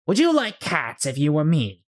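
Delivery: high, offended little creature; indignant mouse. Acted. Offended mouse challenging Alice, high and indignant. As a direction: demand an answer, wounded.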